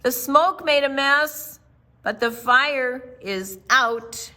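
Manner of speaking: mild firefighter shout. Acted. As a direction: call it out to everyone outside. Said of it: "called out of the door with a shout".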